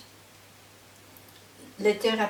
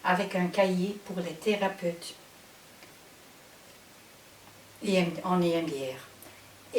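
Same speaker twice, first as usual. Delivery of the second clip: Dutch accent in French. Real, not acted. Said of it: "Je suis néerlandophone, alors je m'excuse si mon français n'est pas parfait".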